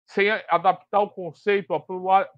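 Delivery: slushy lisped s sounds; tongue-tied lisp on the s. Real, not acted. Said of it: "Desculpa a língua presa".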